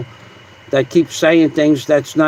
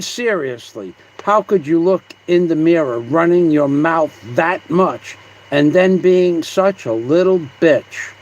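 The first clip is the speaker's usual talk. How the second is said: toned-down read, BITCH left unembellished; attempted monotone. Rereading Scott's comment, in a would-be monotone voice. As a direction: read it out evenly, without punching BITCH. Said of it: "I'll read it in a, in a monotone vo-, voice".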